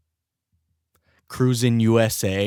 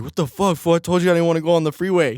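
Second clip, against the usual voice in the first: mock angry; 8 semitones higher, 4 dB louder, faster than usual. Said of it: "I was hella pissed".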